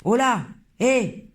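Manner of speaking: high, loud startled yelps; startled cry. Acted. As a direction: jump at the shock. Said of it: "cria l'homme".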